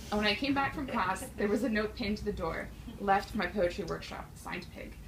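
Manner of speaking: lightly mock-earnest poetry reading; comic poem recitation. Poet reading a fun-ish pig poem to the room, lightly deadpan recitation. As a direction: recite the absurd tale as a serious poem.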